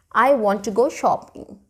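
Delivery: "I" and "shopping" both stressed in "I want to go shopping.". Shown as a demonstration. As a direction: hit "I" and "shopping", keep "want to" light. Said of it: "Shopping is something I emphasized on".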